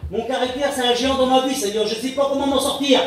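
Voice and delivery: high, insistent confession to God; pleading prayer. Acted. Models a prayer about his temper. (prière implorante, voix haute)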